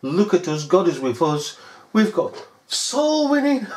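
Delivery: smug mocking parody; mocking the revivalists. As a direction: parody a boastful congregant. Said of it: "Promotes itself in a way that".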